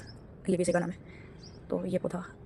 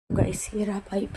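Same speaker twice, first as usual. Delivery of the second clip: whisper; slower than usual. Real, not acted. Vlogger showing the pipe to her viewers, whispered. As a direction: hush it out, slowly, as if sharing a secret.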